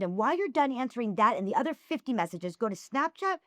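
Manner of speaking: exasperated lecture, pitch climbing through the list; retold mad rant. Woman listing her message workload to a fan, retold as mad. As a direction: pile up the chores in mock telling-off. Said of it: "I was so mad".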